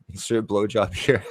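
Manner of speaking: the title said again through a laugh; amused, laughing title; laughing repeat. Pretend. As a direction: crack up while saying it. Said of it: "that's what I'll title the video".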